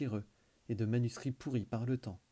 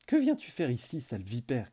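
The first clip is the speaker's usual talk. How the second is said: spat out; 5 dB louder than usual. Acted. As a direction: spit the insult out. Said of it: "cracha Raziel, prêt à mordre". (crachat furieux et fort)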